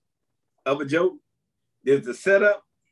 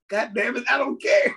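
mock exasperated God; 6 semitones higher than usual. Voicing God on a bad day.

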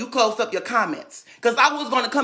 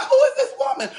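shocked; 13 semitones higher than usual. Retold or imitated. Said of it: "I'm like".

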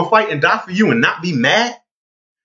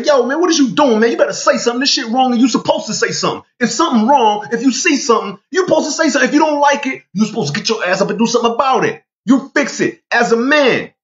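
urging man's voice; 6 semitones higher than usual. Retold or imitated. A man calling him out.

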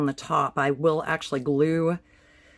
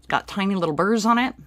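louder, faster repeat to be understood; clearer repeat; 5 semitones higher, 3 dB louder, faster than usual. Real, not acted. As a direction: say it again, clearer. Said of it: "Sorry, trying to talk with the mask on my face".

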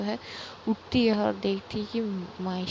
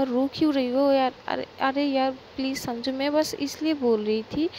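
anxious pleading; 2 semitones higher than usual. Acted. Tied-up girl begging her crying friend, stammering anxious plea. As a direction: beg her friend to stop crying, voice raised and shaky with worry.

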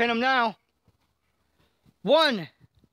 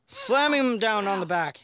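wrestling commentator. Pretend. Play-by-play of a slam.

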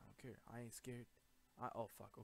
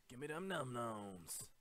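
slow, stretched playful demand; drawn-out food demand; slower than usual. Pretend. Gamer hungry for food, playfully drawn out. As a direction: draw out the greedy demand.

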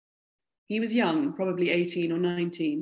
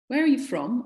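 high, loud pointed question; sharp demand; 6 semitones higher, 4 dB louder than usual. A narrator's reading. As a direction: fire the question at him. Narrator demands of soldier.

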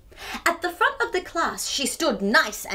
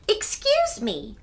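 firm, slow excuse me; strong voice; 7 semitones higher, slower than usual. Acted. Clara firmly facing the laughing classmates. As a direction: stand up for herself. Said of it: "in a voice nice and strong".

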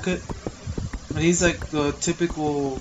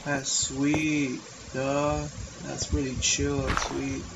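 hippie voice; 2 semitones lower, 5 dB quieter, slower than usual. Acted. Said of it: "You sound like a hippie".

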